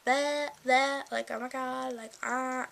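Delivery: mock Valley Girl. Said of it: "Valley Girl-esque".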